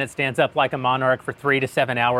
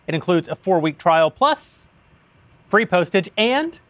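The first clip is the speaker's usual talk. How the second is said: a slower, weighted read of plus and and, as the ad copy asks; stress on plus and and. Shown as a demonstration. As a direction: lean on plus and on and, slowing down. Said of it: "They underline plus and and".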